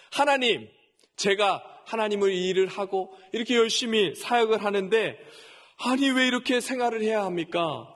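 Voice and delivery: half-acted grumbling prayer, exasperated; retold complaint to God. Pastor grumbling to God about his pay, mildly exasperated. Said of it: "하고 막 불평을 쏟아냈어요".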